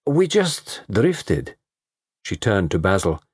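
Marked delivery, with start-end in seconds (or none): 0.1-1.5 slow, lazy vamp voice; lazy bored drawl; languid drawl. A narrator's reading. Dolores speaks, slow drawl.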